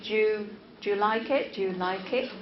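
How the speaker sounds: "Do you" run together as "d'you"; connected speech. Shown as a demonstration. Teacher showing how natives say it, connected "d'you". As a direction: squeeze "Do you" into one syllable before "like it". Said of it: "They would say".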